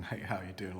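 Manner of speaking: lightly imitated flirty sitcom pickup line; a hint of a smooth sitcom flirt on how; Joey from Friends. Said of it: "like Joey from Friends".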